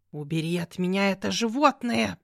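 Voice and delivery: a cat voice spitting the words; cat's angry hiss. Acted. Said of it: "прошипел кот". (шипение рассерженного кота)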